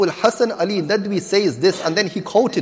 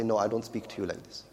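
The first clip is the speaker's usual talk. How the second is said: put-on much softer, small voice of a scolded boy; meek reply; 10 semitones lower, 15 dB quieter than usual. Scolded boy answering his mother, meek and soft. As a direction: answer quietly, like a chastened child.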